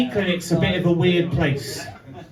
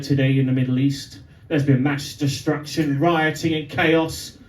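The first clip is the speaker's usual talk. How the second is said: lower, grave mock newsreader; newscaster voice; 4 semitones lower than usual. Newscaster reporting to grandmother, lower mock news read. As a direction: read the headline like a serious TV anchor, slowing at the end. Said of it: "the newscaster will say something like".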